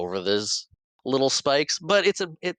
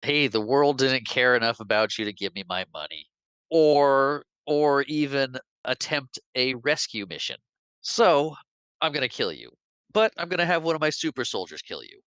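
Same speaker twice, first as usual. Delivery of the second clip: raised, gloating villain voice; villain speech; 5 semitones higher than usual. Retold or imitated. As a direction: lord it over the hostages. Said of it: "He's like".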